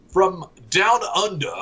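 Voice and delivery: a bad Aussie accent, barely there; terrible Australian accent. Co-host introduces babe from down under, bad Australian accent. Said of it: "that was a terrible Australian accent".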